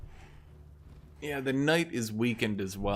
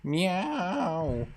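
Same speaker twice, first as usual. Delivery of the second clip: mock cat meows; 8 semitones higher, 4 dB louder, much slower than usual. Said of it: "just goes".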